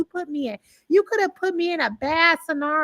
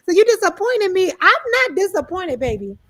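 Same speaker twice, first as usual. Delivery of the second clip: mock indignant; 5 semitones higher, 4 dB louder than usual. Acting out angry reply.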